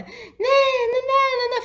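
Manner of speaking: high, whiny crying né né; tantrum whine. Retold or imitated. Mother imitating her daughter's whiny tantrum. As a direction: mimic a child fussing at the door.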